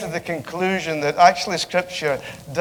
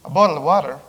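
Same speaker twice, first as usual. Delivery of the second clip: "bottle of water" with an American accent, louder; British speaker mimics American to get water; 5 dB louder, faster than usual. Shown as a demonstration. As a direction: put on an American accent to be understood. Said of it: "But if I say".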